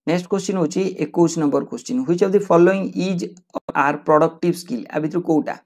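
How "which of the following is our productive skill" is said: slow question read-out. Shown as a demonstration. Teacher reads exam question aloud.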